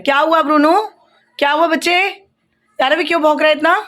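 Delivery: calm the dog down, call him sweetly; soothing the dog. Real, not acted. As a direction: pet talk to a dog. Talking to the barking dog.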